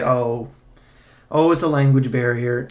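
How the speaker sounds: mild mocking quote of a lame excuse; a loud, lightly sneering parody of the excuse. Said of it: "You can say".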